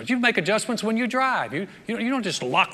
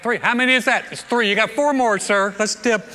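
loud, raised riverside holler; calling out; 4 semitones higher, 7 dB louder than usual. Acted. Servant telling his master four dips remain, calling out. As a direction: shout the count like a keen helper.

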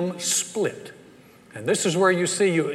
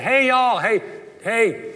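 calling out; 5 semitones higher, slower than usual. Retold or imitated. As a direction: shout across to the enemy camp. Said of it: "and he yells out".

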